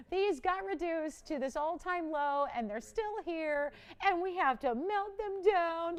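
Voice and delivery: slow, high-pitched pretend lament; drawn-out mock woe; mock dismay. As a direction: plead it out in hammed-up disbelief. Imagine breaking news to jewelry department.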